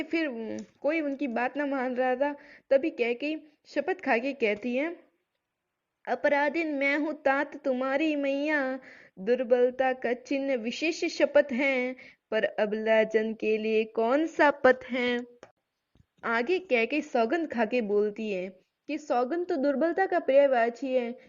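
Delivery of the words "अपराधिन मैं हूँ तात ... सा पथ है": slow, measured verse recital; poem recitation. Acted. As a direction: chant each line slowly like a poem. (धीमा काव्य पाठ)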